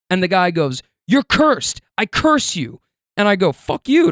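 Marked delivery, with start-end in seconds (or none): 1.1-2.8 retold curse. Stranger curses him. 3.5-4.1 retold angry retort. Snaps back at stranger.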